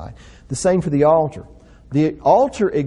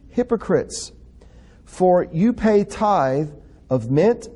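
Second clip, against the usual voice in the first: forceful scripture reading; 3 semitones higher than usual. Acted. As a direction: proclaim the woe like a prophet.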